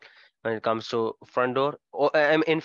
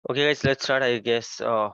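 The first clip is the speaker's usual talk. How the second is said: usual speaking voice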